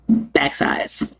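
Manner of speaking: whispered word in the mock quote. Mocking Congress, swallowing the insult in a whisper. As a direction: whisper the rude word instead of cussing.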